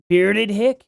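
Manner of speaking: lightly put-on presidential accent, slow; a hint of the politician's drawl; Donald Trump. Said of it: "in a Trump accent".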